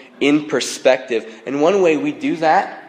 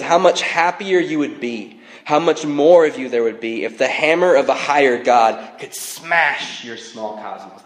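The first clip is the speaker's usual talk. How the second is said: dramatic quote reading. Retold or imitated. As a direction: read it out with relish, easing off at the end. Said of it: "It's so dramatic".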